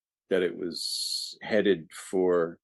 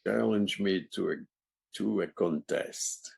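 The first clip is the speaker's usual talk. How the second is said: put-on Czechoslovakian accent; 4 dB quieter than usual. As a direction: play Death with a borrowed Czechoslovakian accent. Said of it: "used that accent for that character".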